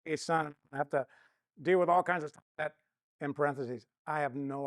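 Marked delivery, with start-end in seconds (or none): 0.0-2.4 louder, rushed confession spilling out; anxious father blurting his fears to his wife, louder; blurted-out fear. Retold or imitated. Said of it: "I just blurted it out".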